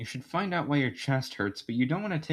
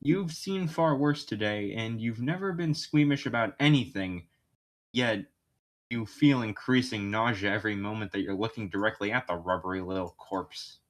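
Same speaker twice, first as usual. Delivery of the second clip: measured game master narration. Acted. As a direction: describe the scene to the player.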